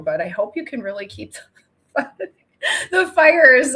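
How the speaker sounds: fake-weep the plea; mock crying. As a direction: pretend tearful apology to Canada. Mock tearful plea to Canada.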